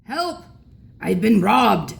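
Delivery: a cry for help, then a put-on old man's shout; grandpa shouting. A narrator's reading. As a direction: yell like a robbed old grandpa. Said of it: "we heard Grandpa shouting".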